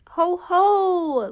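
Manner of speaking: boastful jack-o'-lantern laugh; big pumpkin laugh. Acted. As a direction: throw your head back and laugh. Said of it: "laughed the pumpkin".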